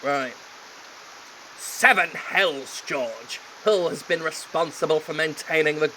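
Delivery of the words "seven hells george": seven hells slow and hammy; mock epic. Voicing the heir on arrival, mock epic. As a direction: savour the oath.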